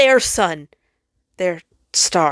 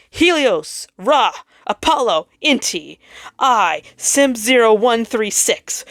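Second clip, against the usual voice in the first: defiant rogue planet; 4 semitones higher than usual. Acted. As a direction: announce the rebellion to the stars.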